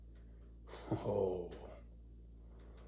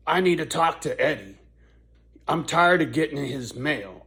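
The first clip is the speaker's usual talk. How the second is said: aggravated lady; 2 semitones higher, 4 dB louder than usual. Retold or imitated. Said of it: "she was really aggravated".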